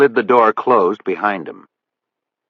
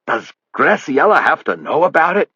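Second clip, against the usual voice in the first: higher, pleading plea; 8 semitones higher than usual. A narrator's reading. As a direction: beg him not to tell. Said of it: "asked in a pleading voice".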